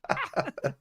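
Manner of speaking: recreate the scream at the daughter, lightly; a half-hearted replay of a scream; mock scream. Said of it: "and I screamed".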